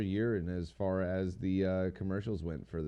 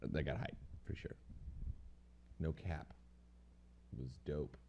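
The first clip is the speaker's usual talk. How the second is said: mock slang; 5 semitones lower, 14 dB quieter than usual. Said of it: "How much random slang can I throw in".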